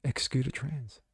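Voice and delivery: high shrieked "Ree" sliding into breathy outrage; sneering parody of a shocked activist; mocking woke protester. Host mocking imagined critics with a shrill outraged voice. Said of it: "the leftist woke come out and go".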